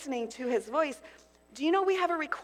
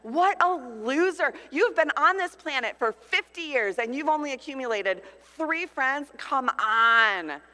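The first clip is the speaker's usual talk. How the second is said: mocking inner voice; 4 dB louder than usual. Speaker retelling her own scornful thoughts at her birthday, mock disdain. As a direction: scoff at yourself. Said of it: "I remember sitting there just thinking".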